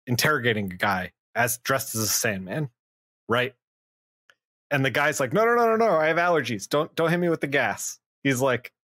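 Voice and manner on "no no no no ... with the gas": panicked pleading. Retold or imitated. Scared guy begs not to be gassed.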